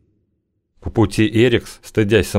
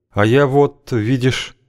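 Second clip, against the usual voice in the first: gentle wife speaking; 5 semitones higher, slower than usual. A narrator's reading. Wife voiced by narrator.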